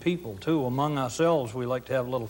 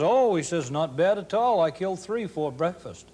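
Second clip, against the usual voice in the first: bragging loud; 4 semitones higher, 3 dB louder than usual. Retold or imitated. Uncle Kurt bragging to warden.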